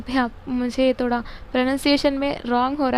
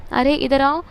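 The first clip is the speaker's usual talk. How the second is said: a louder call to come here; 5 dB louder than usual. Shown as a demonstration. Teacher repeats the example call, louder. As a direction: call a friend over. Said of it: "ये इंशाइया है".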